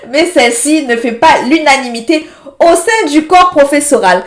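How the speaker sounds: chuckling through the sentence; reading it out while still laughing. Real, not acted. Streamer laughing while reading out the lesson. Laughs over mispronounced term.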